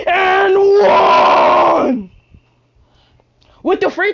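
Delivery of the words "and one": loud and-one call; hype shout. Real, not acted. Gamer celebrating the and-one, loud call. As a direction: yell it like you just scored.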